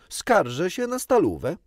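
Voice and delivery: loud, high-pitched tattling cry; calling out. A narrator's reading. Boy seizing his chance to tell on another, called out. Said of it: "zawołał natychmiast".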